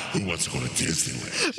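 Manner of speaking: demonic voice. Pretend. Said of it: "went straight to demonic".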